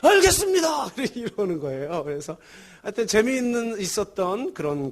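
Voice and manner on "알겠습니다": loud, high soldier's reply; eager reply. Retold or imitated. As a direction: shout it like a private answering his superior. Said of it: "그랬더니".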